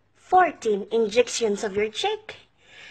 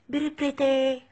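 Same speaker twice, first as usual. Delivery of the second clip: put-on level, sing-song Filipino-accented compliment; imitated Filipino accent. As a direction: mimic a Filipino salesgirl's empty flattery. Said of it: "they still say".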